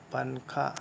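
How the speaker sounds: पनखा said with a clear न sound before ख; spelled-out pronunciation. Shown as a demonstration. Teacher showing the class how पंखा is said, pronounced पनखा. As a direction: sound out पनखा, n then kha. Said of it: "जैसे हम लिखते हैं पंखा".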